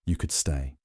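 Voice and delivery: a hushed invitation from the bath; very quietly. A narrator's reading. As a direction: murmur it so only he hears. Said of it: "very quietly".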